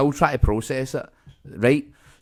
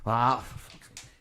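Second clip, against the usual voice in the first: annoyed grumble; 3 semitones lower, 9 dB quieter, slower than usual. Retold or imitated. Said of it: "as if this is a regular occurrence".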